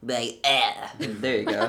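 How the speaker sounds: flat, bored monotone with a little snap; deadpan it, then snap. Shown as a demonstration. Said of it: "assume a monotone voice, get a little snap".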